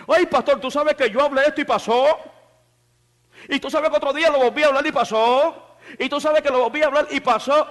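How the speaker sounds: a believer rushing to tell the pastor; eager church member. Retold or imitated. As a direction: tell the pastor your news, amazed.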